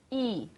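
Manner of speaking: I with lips spread in a smile; smiling I vowel. Shown as a demonstration. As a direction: smile wide on the I. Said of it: "No I, vogal sorriso".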